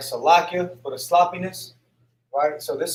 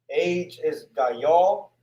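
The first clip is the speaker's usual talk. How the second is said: slow teaching read; much slower than usual. Shown as a demonstration. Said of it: "teaching vocabulary slowly".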